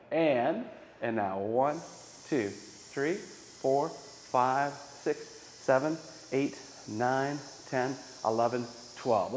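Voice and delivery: counting slowly on the outbreath; slow counting on an exhale. Shown as a demonstration. Teacher retrying the count to twelve. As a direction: count it out steadily, running out of air. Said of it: "Let me try that again".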